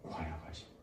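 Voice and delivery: very soft, low, hushed voice; 나직한 성령의 음성. Acted. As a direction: say it low and gently, almost under the breath. Gentle inner voice of Spirit. (나지막하고 조용한 목소리)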